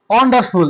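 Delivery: ওয়ান্ডারফুল with weight on its opening ওয়ান; stress on ওয়ান. Shown as a demonstration. Teacher showing pupils where pressure goes, stress on ওয়ান in ওয়ান্ডারফুল. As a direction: press the first part of ওয়ান্ডারফুল. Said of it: "এখানে কিন্তু আমরা বেশি চাপ দিচ্ছি".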